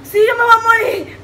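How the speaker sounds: mock crying. Reto de picante, queja exagerada.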